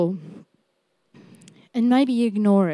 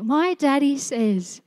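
preacher's playful comeback to the enemy; cheeky comeback. Retold or imitated. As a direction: tease it back like a proud little kid. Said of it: "That's my favourite comeback".

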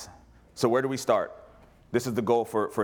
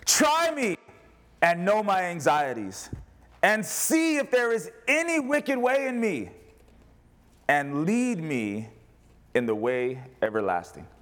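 prayerful plea; 7 semitones higher, slower than usual. Retold or imitated. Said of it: "David says".

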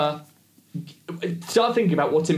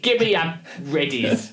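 higher, drawn-out Cockney market-trader voice; mock Cockney; 5 semitones higher, slower than usual. Host jokingly impersonates an author as a market seller, mock Cockney. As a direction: ham up a Cockney hawker, laughing. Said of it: "That's how she speaks. No, she's American. She's not, she's not a Cockney".

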